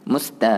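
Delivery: "musta" with a clear, light "ta"; correct light ta. Shown as a demonstration. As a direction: say "musta" keeping the "ta" thin. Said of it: "ta, jangan ta".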